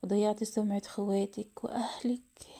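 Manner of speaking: understated tearful lament, slowing down; slow, grieving reproach without real sobs; crying hard. Acted. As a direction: mourn each loss slowly. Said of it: "فضلت تبكي جامد".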